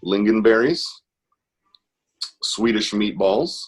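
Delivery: put-on Swedish accent with drawn-out words. Shown as a demonstration. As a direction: do a slow, lilting mock Swedish. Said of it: "the only thing I can do in Swedish".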